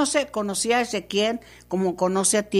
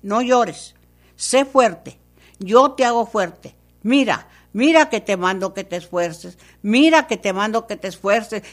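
commanding voice of God; 4 dB louder than usual. Acted. Preacher voices God's command.

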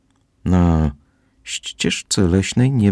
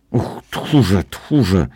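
angry cry; 4 semitones higher, much slower than usual. Acted. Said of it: "krzyknęła".

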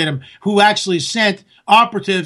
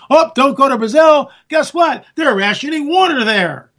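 mock listener voice; 5 semitones higher than usual. Imagined listener warns him.

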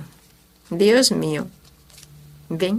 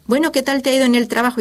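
eager wife; 5 semitones higher, 4 dB louder, much faster than usual. Retold or imitated. Esposa curiosa pregunta.

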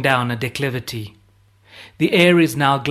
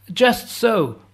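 bawled out much higher; bawling; 9 semitones higher than usual. A narrator's reading. Volpatte bawling agreement over the shelling, high bawl. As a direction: bellow it up over the din. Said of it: "bawls Volpatte".

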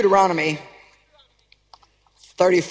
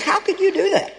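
anguished cry; 8 semitones higher than usual. Retold or imitated. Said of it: "It's like".

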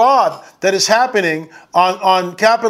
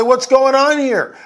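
demanding question; 5 semitones higher, slower than usual. Pretend. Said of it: "wave their hands and say".

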